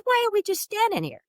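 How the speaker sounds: very high-pitched eager question; excited. Retold or imitated. Asking a dead friend why they wait, excited. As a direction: burst out, impatient to get going. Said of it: "I'm so excited".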